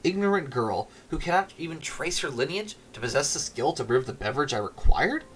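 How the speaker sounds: haughty, grandiose noble speech; pompous lord. Acted. Lord Tick-Tock scorning the village girl, haughty. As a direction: speak down from a throne.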